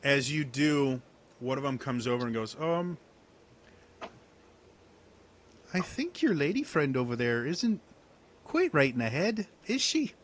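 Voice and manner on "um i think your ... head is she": snide hunter. Acted. Hunter NPC mocks the lady friend.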